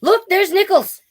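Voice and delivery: high, loud excited cry of discovery; excited shout. A narrator's reading. Ernie spots the store and shouts excitedly. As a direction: shout it out like a thrilled kid. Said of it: "That's how I scream".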